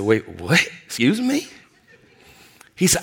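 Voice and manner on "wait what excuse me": surprised. Retold or imitated. Stunned by the business prophecy.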